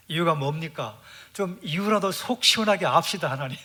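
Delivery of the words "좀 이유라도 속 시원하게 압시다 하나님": mock demand. Believers demanding reasons from God.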